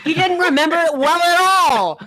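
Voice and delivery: high, laughing delivery. Real, not acted. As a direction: break into laughter mid-sentence. Laughing at the story.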